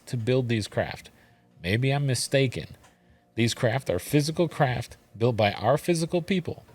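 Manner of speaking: lightly indignant read-aloud with added sass; sassy reading. Acted. Questioner challenging Ra about craft built in Mexico, lightly sassy. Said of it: "I added the sass".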